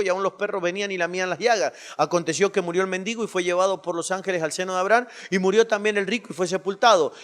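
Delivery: quick, loud Bible reading in one rush; fast scripture reading. Acted. Preacher reading the verse to the congregation, fast and loud. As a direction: race through the verses with force.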